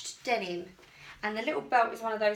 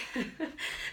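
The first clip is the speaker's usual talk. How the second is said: soft laugh; 3 semitones higher, 6 dB quieter than usual. Real, not acted. Laughing about fire rub.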